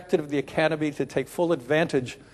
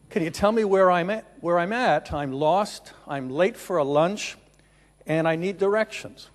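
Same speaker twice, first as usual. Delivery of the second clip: retold yell; 3 semitones higher, 4 dB louder than usual. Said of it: "he yells at him".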